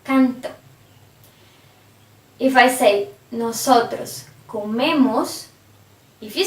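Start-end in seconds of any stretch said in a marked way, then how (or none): 0.0-0.5 canto with "can" stressed and a light final o; teacher's demo of canto, weight before the O; stress before the ending. Shown as a demonstration. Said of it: "before the O". 4.5-5.5 comemos with "me" stressed, before the ending; teacher's demo of comemos, leaning on the middle syllable. Shown as a demonstration. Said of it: "the stress is in".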